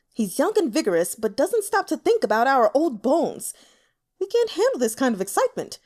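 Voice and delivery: put-on an aging official whining about the young emperor; complaining old man. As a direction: gripe about old bones. Elder complaining to courtesan.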